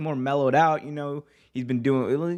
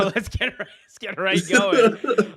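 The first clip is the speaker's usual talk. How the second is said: laughing; 7 semitones higher, 5 dB louder than usual. Real, not acted. Restarting show while laughing.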